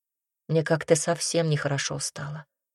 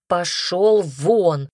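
slow, louder shouted order; shouted get out; 4 dB louder, much slower than usual. Acted. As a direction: blast him out of the room. She throws him out.

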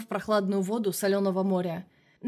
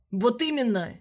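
nearly shouting; 3 semitones higher than usual. Acted. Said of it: "Чуть ли не выкрикнул Ржевский".

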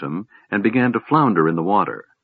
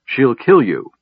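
urgent, higher raised voice; shouted warning; 4 semitones higher, 4 dB louder, slower than usual. A narrator's reading. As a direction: warn him forcefully of the danger. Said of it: "Sturm shouted".

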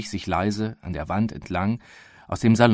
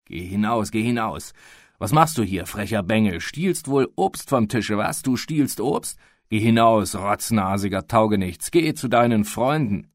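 angry scolding. Acted. Furious man chasing the boy.

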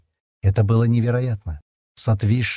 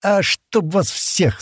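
spiteful hiss; 9 semitones higher, much slower than usual. A narrator's reading. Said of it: "со злобой процедил Стэн".

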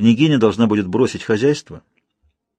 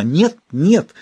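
higher, louder cry of refusal; shout; 6 semitones higher, 3 dB louder than usual. A narrator's reading. Olga refusing to lose Frida, loud cry. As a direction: cry out no in panic. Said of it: "закричала она".

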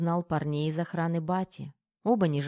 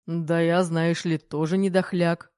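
grumbling, slightly hurt; 5 dB louder than usual. A narrator's reading. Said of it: "с намёком на обиду проворчал".

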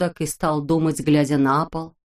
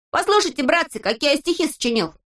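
put-on much higher, proud kid voice; boastful Neznaika; 8 semitones higher than usual. A narrator's reading. Neznaika boasts to his friends in a high voice. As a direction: show off the new poems.

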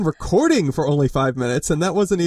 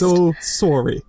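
put-on Canadian accent; much slower than usual. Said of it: "that's my Canadian accent".

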